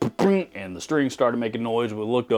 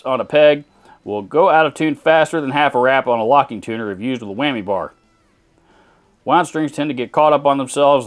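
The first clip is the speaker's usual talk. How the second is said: louder, hammed-up Texas twang reading a viewer comment; mocking a commenter in a put-on Texan accent; 3 dB louder than usual. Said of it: "Good God, that comment was hard to read".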